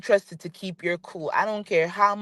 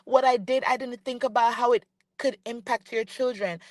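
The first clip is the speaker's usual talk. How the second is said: mocking quote; 3 semitones higher than usual. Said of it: "and said".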